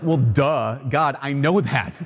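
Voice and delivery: slow, mock-sassy retort; a touch of cheek toward God. Priest mock-sassing the Lord in prayer, slow and cheeky. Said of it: "I get a little sassy with the Lord".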